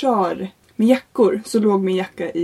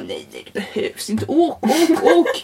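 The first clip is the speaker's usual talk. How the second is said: laughing examiner; 2 semitones higher than usual. Retold or imitated. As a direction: hurry on through a laugh. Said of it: "Han bara".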